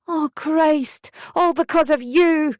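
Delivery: high, shrill-edged mother's screech. A narrator's reading. Mother screeching blame at her daughter on the phone, high shriek. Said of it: "she screeched".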